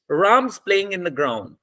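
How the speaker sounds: evenly timed beats on "Ram's", "playing" and "ground"; even stress-timed rhythm. Shown as a demonstration. Teacher showing students how to say the sentence, even beats on "Ram's", "playing", "ground". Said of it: "the time between Ram and play".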